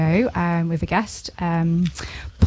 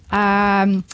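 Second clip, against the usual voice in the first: normal talking voice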